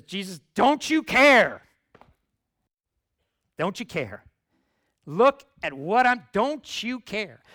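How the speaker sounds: high, loud, drawn-out complaint; exasperated Martha. Retold or imitated. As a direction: whine it like an overworked sister. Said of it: "Martha says".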